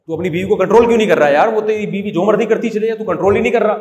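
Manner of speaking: fast, heated demand why he won't control his wife; angry brother. Retold or imitated. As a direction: hurl the accusation at your brother. Brothers quarrel about wives.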